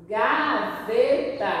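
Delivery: "gaveta" slowly sounded out in syllables; stretched, teacherly syllables on "gaveta". Shown as a demonstration. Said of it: "Já tá separadinho".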